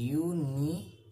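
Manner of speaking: ইউনিভার্সিটি split syllable by syllable with pauses; slow dictation. Shown as a demonstration. Teacher giving students an example, ইউনিভার্সিটি slowly syllable by syllable. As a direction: draw out ইউনিভার্সিটি, one piece at a time.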